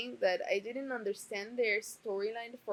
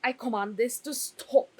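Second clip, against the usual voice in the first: mock queenly order, a bit louder; regal command; 3 semitones higher, 5 dB louder than usual. Queen ordering the crying to stop, haughty. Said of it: "she was like".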